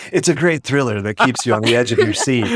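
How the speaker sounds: dramatic trailer narration; movie trailer voice. Shown as a demonstration. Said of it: "I sound like a movie trailer".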